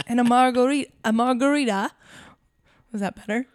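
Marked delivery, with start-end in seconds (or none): 0.1-1.9 Bluey impression. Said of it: "It's Bluey".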